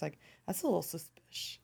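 hushed suspicious aside; conspiratorial whisper. Pretend. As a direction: whisper it like a secret. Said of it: "I'm gonna say that in every episode".

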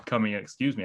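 talking through hiccups; words broken by hiccups. Real, not acted. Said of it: "I have the hiccups again".

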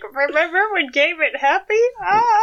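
lightly voiced transatlantic radio announcer; a hint of a twenties newsreel; old-timey voice. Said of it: "That's my old-timey voice".

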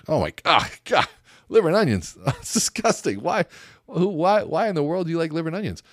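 high, incredulous "liver and onions?"; disgusted. Retold or imitated. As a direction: recoil at the food in mock horror. Mock disgust at liver order.

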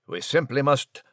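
a hint of a fussy English gentleman; polite, flustered British chap on the phone; posh British mouse. Nigel on phone with sister.

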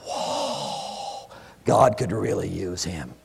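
soft, slow reverent murmur; mock awe; awed hush. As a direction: breathe it in mock wonder. Mocking awed whisper.

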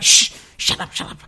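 whispered hush, hissing shut up; mock shushing. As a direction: hush everyone so the child stays asleep. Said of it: "I'm like".

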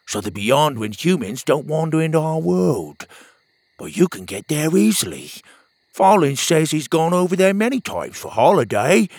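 pep up a gloomy buddy; upbeat friend. Acted. Petey cheering up Pockets, bright friend voice.

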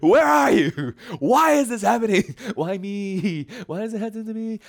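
hammed-up why-me lament; imagined self complaining to God about the snake; mock complaint. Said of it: "I would be like".

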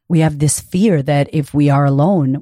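usual speaking voice

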